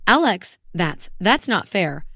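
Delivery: halting, slow stammer after his name; wife stunned by husband's ultimatum, stammering. Acted. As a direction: stumble over the words in shock. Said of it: "I stammered".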